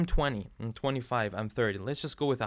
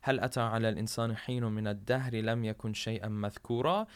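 rapid recited Arabic verse; Quran recitation; 2 semitones lower, much faster than usual. Acted. Preacher reciting Surah Al-Insan to listeners, fast chant. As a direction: chant the verse in one quick flow.

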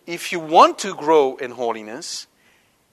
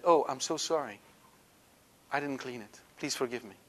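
much softer, fading to almost nothing; humble apology; 2 semitones lower, 9 dB quieter than usual. Shown as a demonstration. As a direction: say sorry gently, voice dropping away. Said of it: "Say instead".

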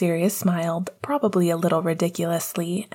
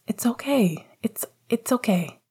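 gentle reassurance; 4 semitones higher than usual. Acted. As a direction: ease his guilt gently. Sirius comforting Evgeny.

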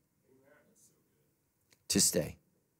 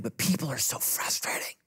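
whispery, strained grumble; mock complaint; 4 dB quieter than usual. Listener objecting to being kind to everyone, whispered complaint. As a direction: grumble it in a hushed, put-on voice.

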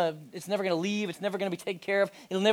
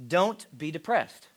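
mock blunt; slower than usual. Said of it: "He says".

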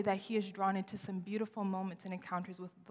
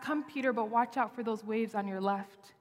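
mock cautious version; 2 semitones higher than usual. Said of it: "It's not".

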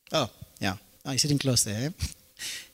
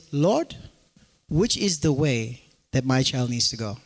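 lower, hushed prayer asking the Lord; 9 semitones lower than usual. Retold or imitated. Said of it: "they would have said".

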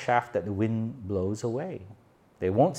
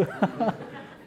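high, voiceless giggle; a quick, high laugh with no voice; breathy high laugh; 12 semitones higher than usual. Real, not acted. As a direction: let out a silent, airy laugh. After the phone story.

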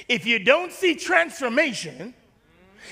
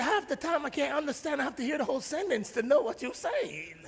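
quiet quote; 3 semitones higher, 9 dB quieter than usual. Retold or imitated. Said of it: "They say".

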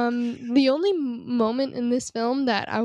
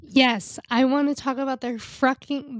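over-eager, tumbling into it; overexcited outburst; too excited; 3 semitones higher than usual. Real, not acted. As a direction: jump in a bit too keenly. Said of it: "I got way too excited".

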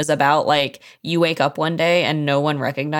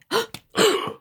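high, sharp gasp of feigned alarm; mock gasp. Friend joking about alien birthday, mock-horrified gasp. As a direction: suck in air as if shocked.

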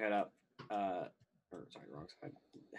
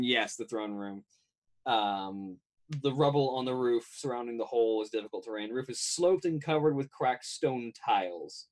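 measured game master description; scene-setting narration. A narrator's reading. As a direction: describe the ruined rooftop to the players.

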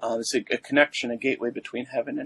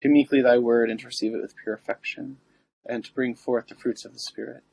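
prayer. Acted. Recites the litany.

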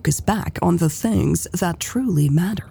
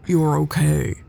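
reassuring; 2 semitones lower than usual. A narrator's reading. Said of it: "the paramedic reassured her".

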